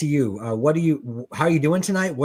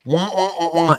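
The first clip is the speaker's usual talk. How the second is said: Peanuts teacher voice; 3 semitones higher than usual. Retold or imitated. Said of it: "the Peanuts teacher".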